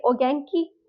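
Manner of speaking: "ओगेंकी" as o-gen-ki, short and casual with a light rise; casual Japanese. Shown as a demonstration. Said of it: "casual पूछेंगे, तो बोलेंगे".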